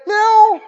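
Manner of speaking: high meow; cat meow. Retold or imitated. Cat rubbing the owner's leg, high meow.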